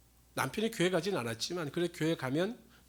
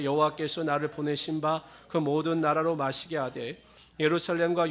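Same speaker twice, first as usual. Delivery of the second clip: louder, solemn Bible reading; scripture reading; 4 dB louder than usual. Acted. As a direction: proclaim the verses to the congregation.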